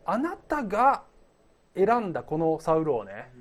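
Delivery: mildly hammed-up grievance to God; playful voicing of an unconvinced prophet; acted indignant protest. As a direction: lay out the complaint, pitch lifting on the key words. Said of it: "納得いかなかったんじゃないかなと".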